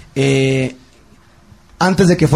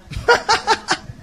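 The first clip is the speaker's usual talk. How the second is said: high breathless laugh; 5 dB quieter than usual. Retold or imitated. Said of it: "carcajeándose de mí".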